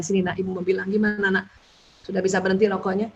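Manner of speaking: soft, quiet, coaxing mother to her son; gentle mother. Shown as a demonstration. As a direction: speak softly like a mother drawing her child in. Mother gently asks her child.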